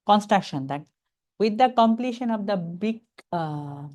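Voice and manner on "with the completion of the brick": very slow, word by word; drawn-out teaching read; slow phrase reading. Shown as a demonstration. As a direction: read it out slowly for the class. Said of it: "পড়ার একটা style আছে".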